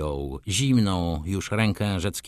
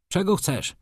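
higher-pitched gruff question; 9 semitones higher than usual. A narrator's reading. Szlangbaum to a servant at the door, gruff. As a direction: ask brusquely, without raising the volume. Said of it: "szorstko zapytał".

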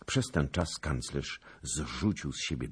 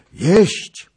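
very high, loud one-word cry; echoed shout; 18 dB louder than usual. A narrator's reading. Others in the hall repeating the king's order, shouted. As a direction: take up the order and yell it. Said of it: "powtórzyli inni".

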